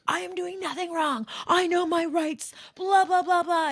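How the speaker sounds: mock-indignant ranting; indignant drunk. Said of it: "And he's like".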